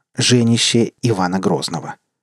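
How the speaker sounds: plain reading voice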